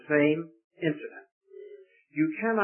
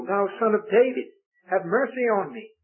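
crying out; 6 semitones higher, 3 dB louder than usual. Acted. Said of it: "he cried out the more".

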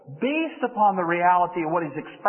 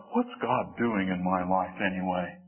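doubting inner voice; 3 semitones lower than usual. Acted. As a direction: voice nagging doubts, rising question by question. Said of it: "kind of wonder in the back of our mind".

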